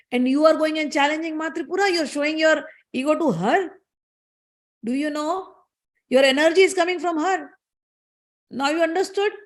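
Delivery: high-pitched, insistent reproach; scolding guru. Acted. Guru rebuking devatas for challenging the goddess, scolding. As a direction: drive the lesson home to proud pupils.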